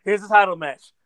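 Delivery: hammed-up cowboy, barely off his own voice; mock cowboy Brock. Mocking Brock Lesnar showing up as a cowboy, lightly voiced cowboy. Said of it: "show up in the fucking, fucking cowboy hat".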